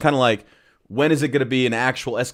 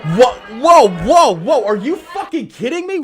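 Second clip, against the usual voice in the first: high, laughing whoa of disbelief; can't believe it, laugh through it; incredulous laughing outburst; 10 semitones higher, 6 dB louder than usual. Real, not acted. Reacting live to press conference.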